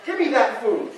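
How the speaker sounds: milk the hostages like a smug little goblin; greedy goblin demands. Retold or imitated. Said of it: "he's like".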